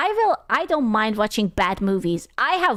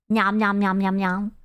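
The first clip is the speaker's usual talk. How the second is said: pretend munching; 3 semitones lower than usual. Pretends to eat a tribble.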